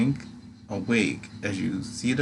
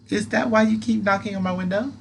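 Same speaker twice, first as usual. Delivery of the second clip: high squeaky moth creature; pixie; 11 semitones higher, 4 dB louder than usual. Acted. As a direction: tease in a tiny squeaky voice. Atlas voice.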